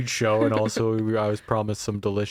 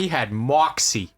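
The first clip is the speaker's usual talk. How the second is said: put-on New York accent. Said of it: "my New York accent".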